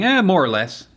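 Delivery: a hint of offhand shrug; average everyday guy. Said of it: "average everyday guy saying".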